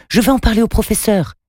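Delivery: appel bien plus aigu, un peu plus fort; lance-le en criant vers la sortie; crié. A narrator's reading. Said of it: "cria Takim". (crié nettement plus aigu)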